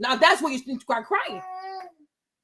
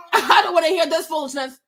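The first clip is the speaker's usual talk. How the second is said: laughing shout. Real, not acted.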